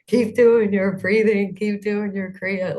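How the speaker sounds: loud, high, drawn-out coaching call; imitating Michael. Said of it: "what Michael says is".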